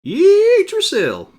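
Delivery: loud, high, slow drawn-out war cry; battle cry. Acted. Warrior shouting as he charges into battle. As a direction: bellow it to the sky.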